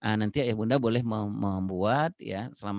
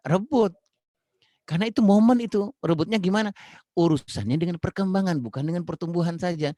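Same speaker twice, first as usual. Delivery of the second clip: emphatic teaching shout; 7 semitones higher, 5 dB louder than usual. Real, not acted. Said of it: "emphatic teaching point".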